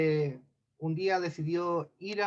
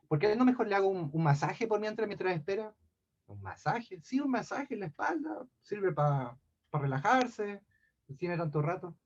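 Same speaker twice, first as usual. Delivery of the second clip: put-on coaxing old man; 2 semitones higher than usual. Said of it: "se vuelve a disfrazar de viejito".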